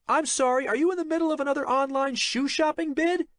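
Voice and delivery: loud, fast, sarcastic jab; said loudly. A narrator's reading. Jake shames his assistant before the office, loud sarcasm. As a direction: publicly shame her with mock politeness. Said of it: "Jake said loudly".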